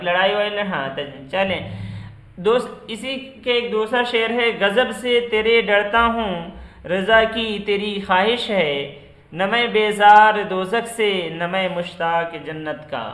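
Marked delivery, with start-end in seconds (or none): 4.5-13.0 couplet recitation. Shown as a demonstration. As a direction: recite the verse louder and measured. (शेर पढ़ने का अंदाज़)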